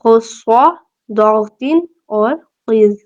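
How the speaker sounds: خصہ ضاغطین قز spelled out slowly and heavily; mnemonic recited. Shown as a demonstration. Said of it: "ان کا مجموعہ کیا ہے؟".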